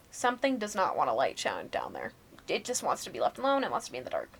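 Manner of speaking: hushed, ominous whisper; eerie whisper. Retold or imitated. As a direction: breathe it low like a warning. Spooky warning to dad in basement.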